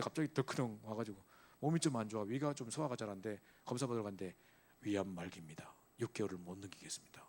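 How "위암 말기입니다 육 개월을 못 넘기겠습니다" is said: dropped low and soft, the last line whispered; hushed doctor's verdict. Retold or imitated. Doctor telling a patient of terminal cancer, hushed and grave. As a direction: break the bad news in a near whisper.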